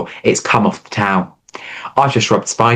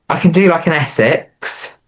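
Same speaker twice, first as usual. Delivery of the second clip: Essex accent; 6 semitones higher than usual. Shown as a demonstration. Co-host showing off accents, in a stretched Essex accent. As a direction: have a go at Essex, stretching the ending. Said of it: "What accents can we do?".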